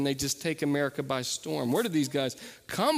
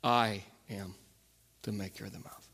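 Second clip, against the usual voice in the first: low, hushed voice of God; understated, deliberate divine answer; quiet authority; 6 semitones lower, 6 dB quieter than usual. Retold or imitated. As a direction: drop low and soft, pausing after "I am". God answering Moses, retold.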